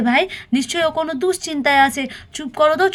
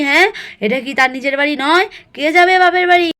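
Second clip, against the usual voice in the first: raised, indignant scolding of the daughters-in-law; scolding mother-in-law. Acted. Mother-in-law confronting her daughter-in-law over visiting parents, angry scolding.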